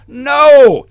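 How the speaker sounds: loud, high emphatic no; shouted no. Real, not acted. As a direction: slam the answer down. Answering his own question.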